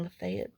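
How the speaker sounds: Lafayette said "luh-FAY-et"; disliked local pronunciation. Shown as a demonstration. Hates saying it this way, Lafayette pronounced luh-FAY-et. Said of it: "I hate saying".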